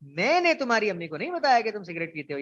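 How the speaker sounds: मैंने lightly pressed, rest let go; a gentle lean on मैंने; stress on मैंने. Shown as a demonstration. Teacher repeating the stress on मैंने for students. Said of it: "मैंने पहले लफ्ज पे जोर दिया थोड़ा".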